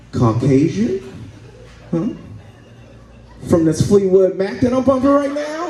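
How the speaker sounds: high mock smug white guy, rising. Comic imagining himself in the car with his friend, mock smug. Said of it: "and I'm like".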